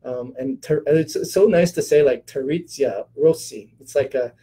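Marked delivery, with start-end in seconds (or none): 2.3-3.7 Italian-style pronunciation. Shown as a demonstration. Doctor showing viewers how to say a name, Italian-style pronunciation. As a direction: say "Terezia Rossi" slowly with an Italian lilt. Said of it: "you have to do it like this".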